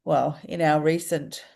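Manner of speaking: talking through a blocked nose; stuffy-nosed, stuffed-up speech. Real, not acted. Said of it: "my nose is really blocked".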